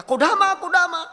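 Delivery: high mock-tearful call; imitated sobbing. Weeping young woman calling on her pastor, imitated sobbing. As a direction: wail the name, acting out tears. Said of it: "begitu nangis terseduh-seduh".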